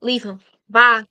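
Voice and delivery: blunt dismissal. Retold or imitated. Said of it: "my cards say".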